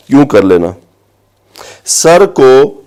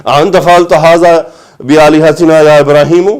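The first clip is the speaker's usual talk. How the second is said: mildly angry, rude demand; 3 semitones higher than usual. Shown as a demonstration. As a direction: throw the question at him with contempt. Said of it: "ان کا ایک لہجہ، غصہ اور بدتمیزی".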